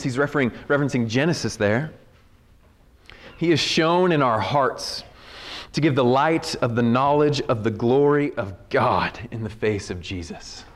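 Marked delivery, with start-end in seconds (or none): 3.4-10.6 scripture reading. Acted. Preacher reading Paul to the congregation, measured scripture reading. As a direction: read it out deliberately, easing down to a hush.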